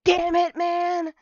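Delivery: sudden loud high yell of frustration; loud yelled damn it; imitated scream. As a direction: scream it like you just got caught. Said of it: "He does, he screams".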